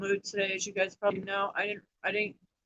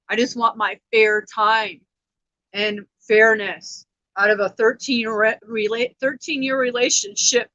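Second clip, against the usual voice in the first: upset plea; 6 dB louder than usual. Real, not acted. Venting about ex, emotional.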